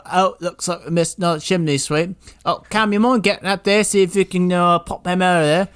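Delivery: mock boss calling up; hammed-up boss ordering the boy up. Boss sending the boy up the chimney, hammed-up. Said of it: "They go".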